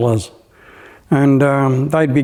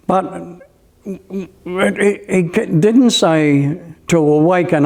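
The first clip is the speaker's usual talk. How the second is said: chuckling through the words; laughing; 3 semitones higher, slower than usual. Real, not acted. Telling friends the quote, chuckling. Amused at the misquote.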